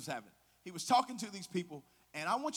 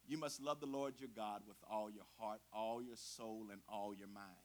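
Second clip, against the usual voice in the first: deep crooning singer's voice; 9 semitones lower, 11 dB quieter than usual. Retold or imitated. Jesus answering the testing lawyers, in a low smooth croon. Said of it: "in the best deep crooning singer's voice".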